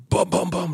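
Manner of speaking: bouncing bom-bom-bom of a tumble; imitated thuds. Preacher imitating his toddler toppling like an oak, imitated thuds. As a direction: sound out the bumps of a fall.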